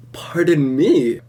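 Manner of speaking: slow, breathy whisper of a caught student; sheepish whisper. Retold or imitated. Caught out by annoyed teacher.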